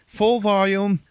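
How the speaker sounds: loud, high, slow. Retold or imitated. Describing the helicopter noise, loud and high. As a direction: belt it like the rotor.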